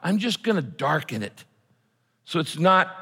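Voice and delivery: voicing God. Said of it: "God is saying".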